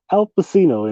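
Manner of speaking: "Al Pacino" said as Al pa-SEE-no; mispronounced name. Shown as a demonstration. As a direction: put an S in "Pacino" instead of CH. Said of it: "Nobody's never said this shit".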